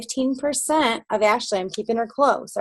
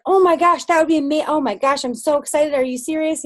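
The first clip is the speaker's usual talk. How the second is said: higher, gushing delight; thrilled reaction; 5 semitones higher than usual. Retold or imitated. Upline hears about a new recruit, with gushing excitement. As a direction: act out her excited squeal of joy.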